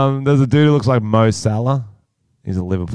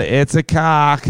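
high, slow put-on American girlfriend; American girlfriend impression; 5 semitones higher, slower than usual. Mock girlfriend greeting another girlfriend, high drawn-out American voice. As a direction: draw it out in a higher girlfriend voice. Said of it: "he has to impersonate his mysterious American girlfriend".

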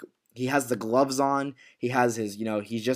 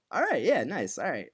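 imitating Ada; 4 semitones higher than usual. Ada's changed reaction to the job.

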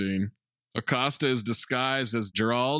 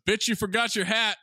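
sassy quote; 10 semitones higher than usual. Retold or imitated. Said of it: "Beanie throws a wig out the room and says".

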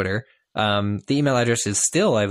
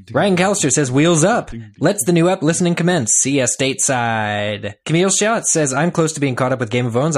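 loud, hurried reading of tweets; rushed tweet reading; 3 semitones higher, 3 dB louder than usual. Acted. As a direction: race through them against the clock. Racing through tweets in time.

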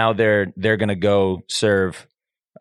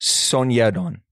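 slow, halting Korean pronunciation; Korean accent; slower than usual. Shown as a demonstration. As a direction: sound it out carefully in a Korean accent. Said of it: "We can do a Korean accent".

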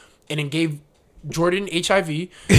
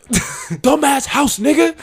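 mocking dope fiend; 9 semitones higher, 4 dB louder, much slower than usual. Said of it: "It's like".

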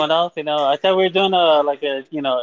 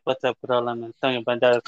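light Latin-accented impression, a bit lower; Antonio Banderas; 4 semitones lower than usual. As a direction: introduce yourself with a hint of Latin accent. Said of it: "I have a little Antonio Banderas thing".

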